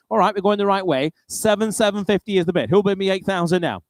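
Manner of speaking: brisk auctioneer bid calling. Real, not acted. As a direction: rattle off the bids, keep the room moving.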